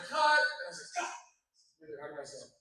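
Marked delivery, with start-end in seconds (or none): 0.0-0.4 retold shout of "Cut". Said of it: "And it was like". 1.1-1.2 short mock yell; mock scream. Actor retelling his flubbed take, mock scream. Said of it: "I was just screaming".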